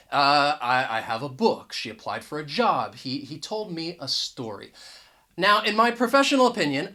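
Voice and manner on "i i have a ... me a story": "a" reduced to "uh"; schwa article. Shown as a demonstration. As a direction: say "a" as an unstressed schwa before the noun. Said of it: "going to use uh".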